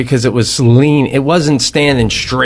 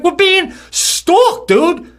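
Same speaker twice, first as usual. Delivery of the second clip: higher, drawn-out fretful voice; mock scared wife; much slower than usual. Wife to husband in camper about the bear, higher mock-scared whine. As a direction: play up her nervous dread.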